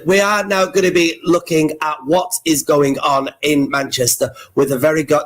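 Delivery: posh voice. Acted. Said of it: "this is your posh voice".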